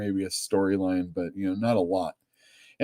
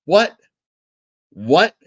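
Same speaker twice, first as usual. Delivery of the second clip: mock outrage; 7 semitones higher, 7 dB louder than usual. Reacting to story comment.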